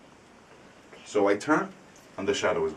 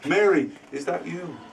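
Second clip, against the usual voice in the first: raised, questioning call to Mary; uncle calling, higher; 9 semitones higher than usual. Retold or imitated. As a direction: call out to her higher, unsure.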